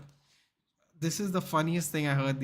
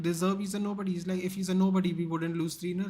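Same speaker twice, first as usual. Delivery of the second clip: high indignant quote; 5 semitones higher than usual. Retold or imitated.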